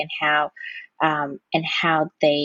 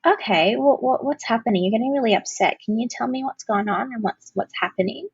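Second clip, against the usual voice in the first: slightly raised, caring voice that slows an upset adult down; calm, caring tone; 4 semitones higher than usual. Shown as a demonstration. Speaking to an upset adult friend, gently reassuring. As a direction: reassure and invite them to talk. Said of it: "you could use that tone of voice with an adult and go".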